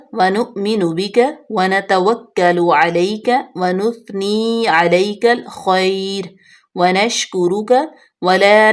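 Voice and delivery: slow, steady recitation of the whole prayer; full recitation. Shown as a demonstration. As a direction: recite the dua reverently from start to end. پوری دعائے قنوت پڑھ لیتے ہیں. (دعائے قنوت کی پوری تلاوت)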